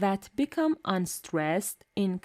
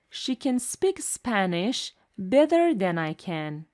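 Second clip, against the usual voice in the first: first can reduced, last can full and stressed; weak then strong can. Shown as a demonstration. Teacher showing weak and strong can. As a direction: swallow the first can, land on the second. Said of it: "the first can is a weak form".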